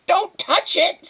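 high, loud, stretched scream; screamed warning. A narrator's reading. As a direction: stop someone in a panic. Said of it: "screamed her mother".

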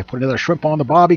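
quick put-on Australian patter; hammy, hurried Aussie accent; poor Australian accent. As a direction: rattle it off in mock-Australian. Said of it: "thick Australian accent".

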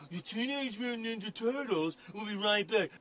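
soft mock announcer read; lightly voiced network promo. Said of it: "you're always doing, like".

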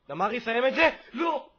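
loud, high cry of urging into dismay; real high-pitched yell at a missed chance; urgent shout. Real, not acted. Gamer begging Damari to finish, then shouting in dismay.

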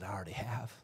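soft, low and intimate; hushed voice from heaven. Retold or imitated. God answering Jesus from heaven, hushed and low. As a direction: say it as a gentle secret. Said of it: "But that's not all he said".

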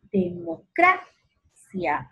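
"Democracia" slow, CRA high, pause, cia; stress on CRA. Shown as a demonstration. Teacher showing the tonic, high stretched CRA in "Democracia". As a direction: lift CRA in "Democracia", then stop. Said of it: "la sílaba cra".

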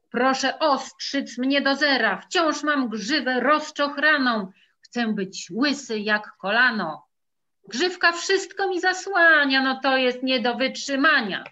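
a fed-up pony demanding a trim; eager horse begging for a haircut; impatient horse. Acted. Horse asks barber, quoted.

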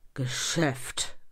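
usual speaking voice

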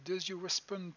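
English read with a thick French accent; terrible English accent. Real, not acted. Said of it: "mon accent anglais est absolument terrible".

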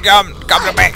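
hammed-up undead complaint; zombie. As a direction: groan hungrily like a zombie. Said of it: "He's like".

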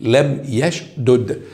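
لم يشدد read very slowly with each letter clear; teacher spells out لم يشدد slowly; slow demo. Shown as a demonstration. Teacher to students, a slow careful model reading. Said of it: "هكذا يشد".

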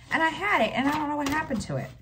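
exasperated, voice climbing high; frustrated disbelief. Real, not acted. Telling viewers her grocery list vanished, high exasperated disbelief.

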